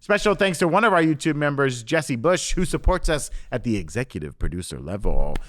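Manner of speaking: upbeat show sign-off; host outro. Acted. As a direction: wrap up the episode like a host.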